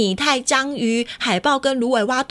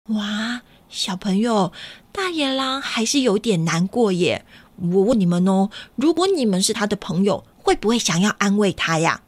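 put-on gentle storytime voice for little kids; reading to a toddler; 3 semitones lower than usual. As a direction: coax the kids along like a preschool teacher. Reads to children, asking them.

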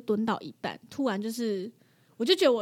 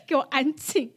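annoyed scolding; 4 dB louder than usual. Retold or imitated. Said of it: "我想说".

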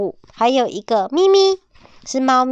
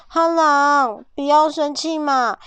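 pleading piglet; 5 semitones higher, slower than usual. Acted. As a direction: coax the angry friend gently. Piglet voiced pleading with wolf.

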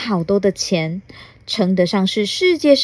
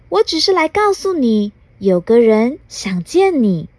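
nonchalant fairy; 4 semitones higher than usual. Acted. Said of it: "若无其事地接着说".

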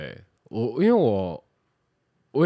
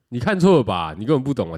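indignant retort; 2 semitones higher, 6 dB louder, faster than usual. Retold or imitated. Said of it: "就直接恼羞这样".

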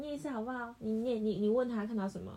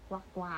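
quacking duck imitation; 6 semitones lower, 7 dB quieter than usual. Shown as a demonstration. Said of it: "Yellow duck，duck".

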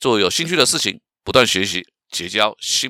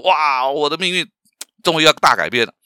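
eager, higher and louder inner voice; 满怀期待; 4 semitones higher, 3 dB louder than usual. Acted. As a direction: act out a hopeful "wow" moment. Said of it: "就会充满内心期待". (满怀期待地惊叹)

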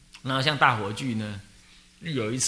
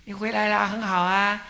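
gentle elder; 8 semitones higher than usual. Retold or imitated. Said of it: "忏公就如清凉地跟你讲".

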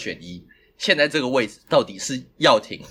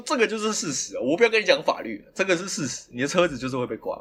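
dead certain, retold; 4 semitones higher than usual. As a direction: imitate calm certainty, dropping to usual pitch. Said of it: "对，他很笃定".

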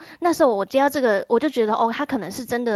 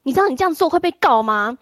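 threatening warning; 3 semitones higher, 5 dB louder than usual. Retold or imitated. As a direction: warn her she'll be sued. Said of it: "然后他就说".

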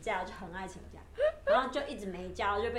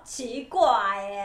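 baffled complaint; 8 dB louder, much slower than usual. Retold or imitated. Acted reaction to the smiling teacher.

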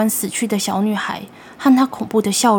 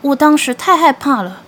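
put-on frightened child pleading; 5 semitones higher, 4 dB louder than usual. Boy pleads to grandfather.

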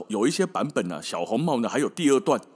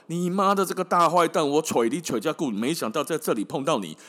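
angry hunter shout; 4 semitones higher than usual. Acted. Hunter finds the wolf in bed.

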